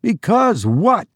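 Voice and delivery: high, pressing question; quick question. A narrator's reading. Narrator presses the stranger for his reason, quick question. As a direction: pounce on the unfinished answer. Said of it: "I asked quickly".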